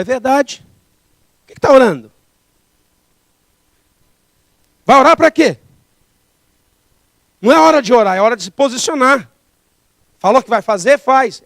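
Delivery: God scolding the preacher, loud and firm; stern rebuke. Retold or imitated.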